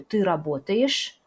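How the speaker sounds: работаешь with an unstressed ending between ye and i; reduced ending. Shown as a demonstration. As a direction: say работаешь ending in a short yish, not yesh. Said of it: "mais on prononce yish". (работаешь: fin réduite, entre « ye » et « i »)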